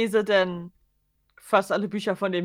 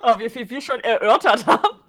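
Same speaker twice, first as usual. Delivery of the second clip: laughing; 2 semitones higher, 6 dB louder than usual. Real, not acted. Laughing at the tangent.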